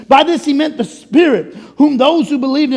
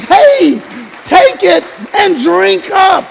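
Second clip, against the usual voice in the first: louder, slower, beaming call to drink; inviting call; 4 semitones higher, 4 dB louder, slower than usual. Acted. Pastor voicing God's invitation, loud and eager. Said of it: "And he says".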